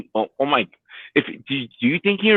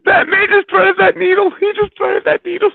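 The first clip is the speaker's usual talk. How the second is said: excited shout. Real, not acted. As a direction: cheer the throw. Praising the throw.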